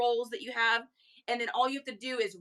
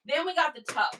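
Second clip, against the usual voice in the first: higher-pitched, lively reveal; upbeat announcement; 5 semitones higher, 4 dB louder than usual. Real, not acted. Seller introducing the next item, lively announcement. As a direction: announce it in one quick go.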